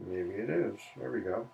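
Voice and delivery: talking around a pen cap; mouth full. Real, not acted. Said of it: "I have a cap in my mouth".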